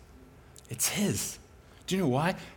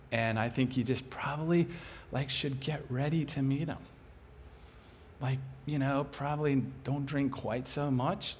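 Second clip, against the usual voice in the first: tender prophecy; 3 semitones lower than usual. Retold or imitated. Prophetic word spoken to neighbor.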